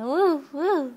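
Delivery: just echo the woof gently; mild dog woof. Shown as a demonstration. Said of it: "He goes".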